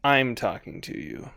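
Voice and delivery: hushed, lightly voiced unseen creature; voice in the head. Game master as a voice in the player's head, quiet. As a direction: speak softly, as if inside their head. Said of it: "you hear this voice in your head".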